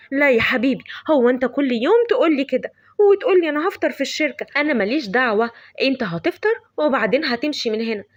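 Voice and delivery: insistent loving nag; fussing mother. Acted. Mother Zeinab scolds Salim.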